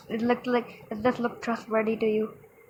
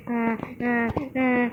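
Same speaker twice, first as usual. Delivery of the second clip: short mock sobs; imitated crying; slower than usual. Upset salon customer reacting to her hair, imitated crying. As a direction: pretend to cry in little bursts. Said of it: "She was crying like this".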